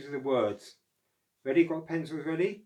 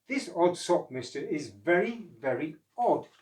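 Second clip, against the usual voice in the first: a touch higher, musing; puzzled; 5 semitones higher, 4 dB louder than usual. Acted. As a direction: puzzle over the odd sock. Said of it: "Oscar was puzzled".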